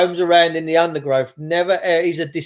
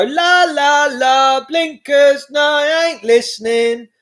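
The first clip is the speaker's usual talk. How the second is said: mocking; 7 semitones higher, 3 dB louder, slower than usual. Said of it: "will just go".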